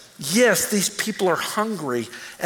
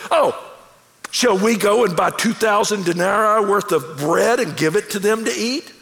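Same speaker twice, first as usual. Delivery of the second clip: smart-aleck. Retold or imitated. Hangry disciples answer Jesus's order to feed the crowd, smart-aleck. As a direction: imitate hangry disciples answering back with attitude. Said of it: "it's a little smart aleck almost".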